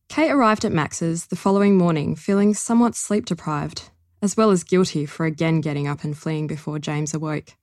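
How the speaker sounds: measured reading aloud of her novel; story narration. A narrator's reading. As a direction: read the extract steadily for listeners. Author reads her novel extract.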